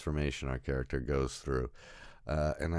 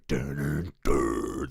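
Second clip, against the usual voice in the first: imitated score sting; 5 dB louder, much slower than usual. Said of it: "The score is very interesting".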